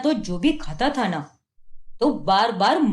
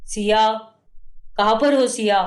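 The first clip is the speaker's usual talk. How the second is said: angry calling out. Acted. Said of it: "गुस्से में घर आता है".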